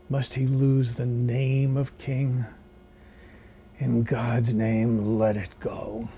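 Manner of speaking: Shakespeare recitation. Acted. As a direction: recite Richard the Second with measured gravity. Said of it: "That's from Richard the Second".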